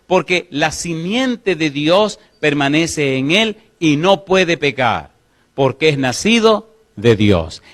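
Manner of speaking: slow, weighty reading of the verse; solemn scripture reading. Acted. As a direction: lean into each word of Scripture. Reads scripture in sermon. (lectura solemne y pausada de la Biblia)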